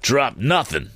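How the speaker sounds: mild yell. A narrator's reading. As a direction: yell back defiantly, held in volume. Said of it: "yelled the man".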